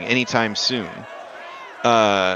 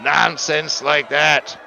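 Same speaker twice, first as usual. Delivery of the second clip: annoyed NPC; 7 semitones higher than usual. Acted. NPC points out the sylph to the party, irritated and high. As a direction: dismiss the question impatiently.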